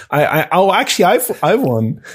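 sudden burst of excitement; excited idea. Real, not acted. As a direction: pitch leaps up with a new idea. Sudden idea, pitch jumps.

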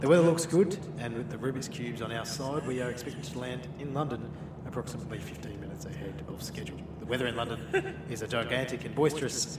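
a light airline captain announcement; pilot voice. Pretend. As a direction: lightly play the captain on the intercom. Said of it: "Your best pilot voice".

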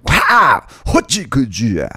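sudden loud "wah", then drawn-out nonsense battle cry; playful cartoon ambush yell; mock attack cry. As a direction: burst out like a pretend attacker. Mimics attacking Pokemon Go characters.

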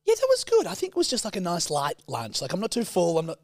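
mocking Steph. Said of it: "she goes".

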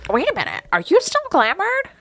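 sudden high alarmed rush. Acted. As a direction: panicky questions. Sudden panic about glamour.

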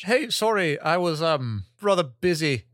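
lightly affected, overly formal brush-off; a hint of a prim, proper tone; put-on polite voice. Putting Robin off in a lightly prim voice. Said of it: "why are you talking like that?".

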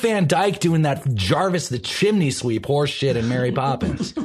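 high-pitched, indignant outburst; worked-up, emphatic griping; exasperated rant. Real, not acted. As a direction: vent your outrage, pitch leaping on the key words. Comic rant over fake accents.

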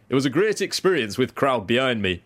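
lightly voiced young Yorkshire cricketer; impression of teenage cricketer. Reading a teenage bowler's quote, light impression. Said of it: "it's quite a good impression of him".

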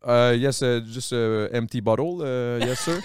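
put-on hesitant French-accented English, full of euh; halting beginner's English. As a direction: grope for English words with a Québécois accent. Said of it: "c'était au début, je parlais pas pantoute".

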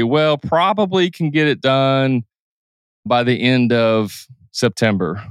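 slow, hesitant reply; unsure hedging. Shown as a demonstration. Contractor hedging the deadline, hesitant. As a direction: hedge the deadline without commitment. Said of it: "does that sound confident to you?".

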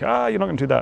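high, taunting villain voice; smug movie baddie. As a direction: sneer it like a cocky villain. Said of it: "he's all like".

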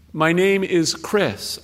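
slow and careful. Retold or imitated. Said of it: "I spoke slowly in case".

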